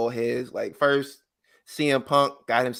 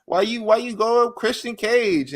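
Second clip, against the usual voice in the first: higher, louder mock mother; imitating his mom; 10 semitones higher, 4 dB louder than usual. Nick Wayne's mom scolding her son, mock high voice. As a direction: nag like an upset mom. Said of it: "she was like".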